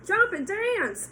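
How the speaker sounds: high, loud, slow rooster cry; rooster calling. Acted. Rooster calling to Wilbur, high and slow. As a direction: crow it out. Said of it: "said the rooster".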